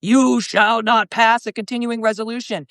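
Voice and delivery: a hint of Gandalf's you shall not pass; lightly hammed-up wizard command; mock-grand decree, barely changed voice. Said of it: "I'm gonna be Gandalf".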